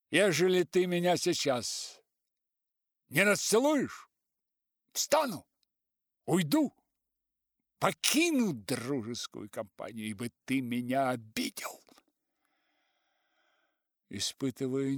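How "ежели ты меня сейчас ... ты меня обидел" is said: high, loud threatening shout. A narrator's reading. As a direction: shout the ultimatum. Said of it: "кричал пожилой".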